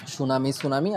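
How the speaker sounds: সুনামি twice with a silent t; correct pronunciation. Shown as a demonstration. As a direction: repeat সুনামি without the t. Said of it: "pronounce করতে হবে".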